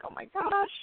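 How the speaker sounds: mock panic. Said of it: "and I'm like".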